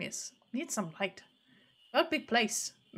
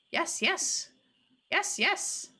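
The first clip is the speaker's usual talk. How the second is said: dopey cartoon bellow; 6 semitones higher, much slower than usual. Quina eagerly accepting the frog.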